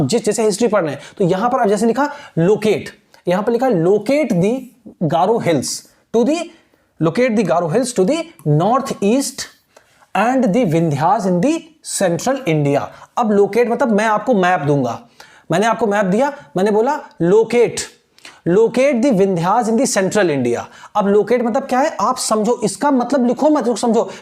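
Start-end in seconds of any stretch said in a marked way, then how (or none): 3.7-12.8 slow, deliberate reading of the question. Shown as a demonstration. Teacher reading the map question aloud slowly to students. 18.5-20.6 slow, deliberate reading of the question. Shown as a demonstration. Teacher reading the map question aloud slowly to students.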